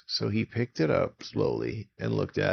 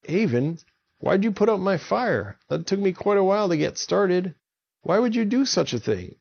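much higher, louder pleading giant voice; upset giant; 10 semitones higher, 3 dB louder than usual. Acted. Jerry the Giant complaining to Avon about his fire, high upset. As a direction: plead like a hurt big fellow.

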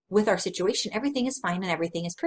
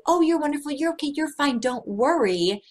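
mock cheerful reassurance; 5 semitones higher than usual. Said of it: "just telling everybody".

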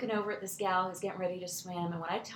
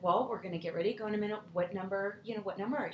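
calm grandparents; 4 dB quieter, faster than usual. Retold or imitated. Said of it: "they're very calm".

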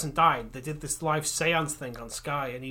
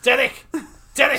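calling out; 8 semitones higher, 7 dB louder than usual. Pretend. Calling for Derek's ghost.

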